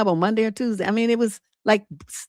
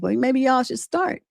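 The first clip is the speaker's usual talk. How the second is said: sassy; 3 semitones higher, faster than usual. Retold or imitated. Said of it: "'cause that's how I was, a little sassy thing".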